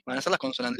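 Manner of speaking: ordinary delivery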